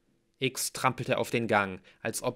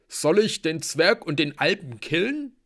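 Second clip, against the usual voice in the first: loud, high, rising question; belligerent warrior; 7 semitones higher, 7 dB louder than usual. A narrator's reading. Halbgeboren asks about killing the guests, loudly questioning. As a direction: offer violence at full voice. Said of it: "starrte Blitz und Hearth wütend an".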